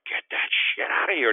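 loud, high blocked-shot taunt; retold trash talk. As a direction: shout it as a hammed-up boast. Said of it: "I was like".

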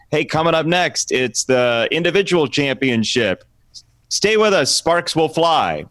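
upbeat sports announcer tease; punny broadcast tease; announcer read. Retold or imitated. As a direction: sell it like a TV promo. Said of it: "read through the script once, just do it straight".

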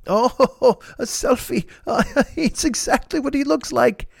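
high imitated laughing delight; John Cleese. Hero relishing the selfie joke, laughing impression. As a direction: chuckle through it as an amused Englishman. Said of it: "He's laughing".

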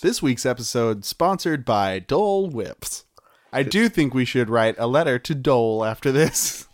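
whispered ad read. Pretend. Mock sponsor read.

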